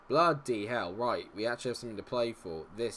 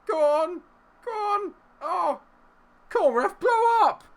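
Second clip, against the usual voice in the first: high, loud pleading shouts; frantic last-seconds yelling; desperate urging; 9 dB louder than usual. Real, not acted. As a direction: scream at the ref to end it. Begging referee to end match.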